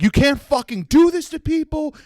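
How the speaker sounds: very high-pitched mock tantrum; acted outraged protest. Angry customer protesting to the staff, high acted outrage. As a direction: protest in a high, indignant meltdown voice. Acts out his public meltdown.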